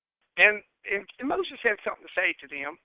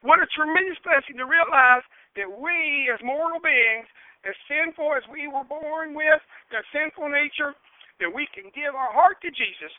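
raised, fervent pulpit voice; fervent preaching; 6 semitones higher, 5 dB louder than usual. Real, not acted. Preacher praising God for new life, fervent.

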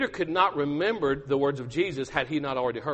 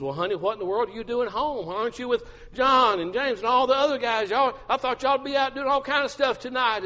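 puzzled wife; 8 semitones higher than usual. Acted. Wife questions husband home unexpectedly.

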